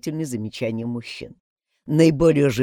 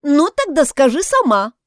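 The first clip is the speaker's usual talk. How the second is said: higher, louder dare; challenging demand; 11 semitones higher, 7 dB louder than usual. A narrator's reading. Ross challenges Mary to name the killer, demanding. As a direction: throw down the challenge. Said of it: "с вызовом потребовала Росс".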